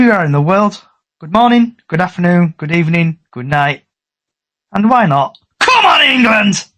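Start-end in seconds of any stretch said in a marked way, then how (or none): 5.6-6.6 sign-off cheer. Acted. Host signs off with a cheer.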